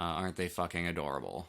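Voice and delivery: understated, deadpan gushing; mock sincerity. Real, not acted. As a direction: gush without any lift in the voice. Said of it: "I can hear the sincerity in your voice".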